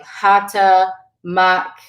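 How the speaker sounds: "hata, mak" with a short open ah; short ah sound. Shown as a demonstration. Teacher showing the letter A without fada, short ah. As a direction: say "hata" and "mak" as separate model words, short A. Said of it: "so it's the ah sound".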